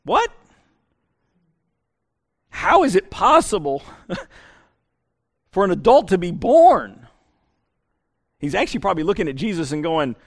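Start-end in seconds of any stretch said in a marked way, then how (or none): 0.0-7.1 baffled, half-laughing what, how is it possible; incredulous question. Retold or imitated. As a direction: play the confused Nicodemus, a bit amused. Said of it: "you go".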